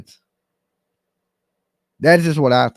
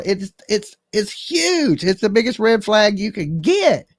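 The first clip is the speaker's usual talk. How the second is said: worked-up warning; 6 semitones higher than usual. Real, not acted. Warning the mother about red flag.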